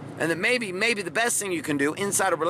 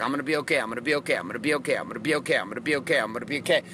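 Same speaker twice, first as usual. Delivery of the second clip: low, monotone self-reassuring chant; mock self-soothing loop, pitched down; pretending to be okay; 4 semitones lower, much faster than usual. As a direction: repeat it by rote like a forced mantra. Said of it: "Now I'd pretend like".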